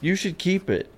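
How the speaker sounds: high, sweet imitation of a girlfriend; imitating girlfriend. Quoting Lauren giving a gift, high imitating voice. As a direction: lift the voice to play her. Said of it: "she's like".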